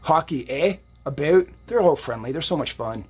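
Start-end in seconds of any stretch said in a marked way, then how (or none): 0.0-1.5 jokey Canadian "eh" and "About"; mock-Canadian accent; bad Canadian accent. Shown as a demonstration. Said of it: "gonna do a bad accent right now".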